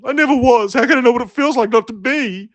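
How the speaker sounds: high, frantic chicken squawk. Acted. Chicken Jerry squawking while running in circles. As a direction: squawk it like a panicked bird. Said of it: "he squawks".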